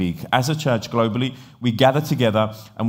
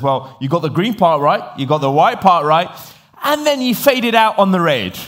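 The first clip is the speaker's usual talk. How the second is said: higher, building to a loud punchline; mock explanation rising to a punchline; teasing build-up; 6 semitones higher, 5 dB louder than usual. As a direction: tease in steps, then lift the last line high. Builds to his joke's punchline.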